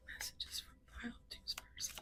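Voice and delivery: softly whispered reading. Real, not acted. Tarot reader whispering the message heading, hushed. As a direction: breathe it, barely voiced.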